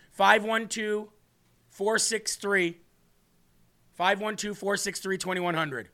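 slow, clear digits for writing; slow dictation. Shown as a demonstration. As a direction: read the number out slowly. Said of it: "Can you write that down real quick?".

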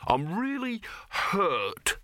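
high, slow, hammed-up hurt; mock wounded. A narrator's reading. Dibbler plays the wounded uncle to his nephew in a high, slow, hammed-up voice. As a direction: lay the fake injury on thick.

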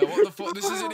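loud, high exasperated exclamation; incredulous outburst. Real, not acted. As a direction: throw it out in real disbelief. Real outburst at the conversation.

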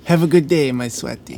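mock Eastern European endearment; "sweaty" for sweetie, in an Eastern European accent; imitated mother's accent. Friend imitating the mother's goodbye, Eastern European accent. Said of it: "It's the Eastern Europeans".

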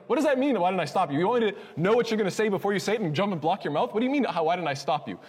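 acted-out incredulous rant; exasperated retort. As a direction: argue back in baffled protest. Speaker retorts to being blamed.

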